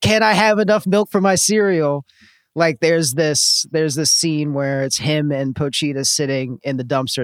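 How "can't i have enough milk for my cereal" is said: mock wail. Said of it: "visceral, like, wail of just like".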